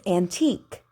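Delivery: "antique" with a sharp final K; over enunciating. Shown as a demonstration. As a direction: pop the K at the end of "antique". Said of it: "Did you hear the K?".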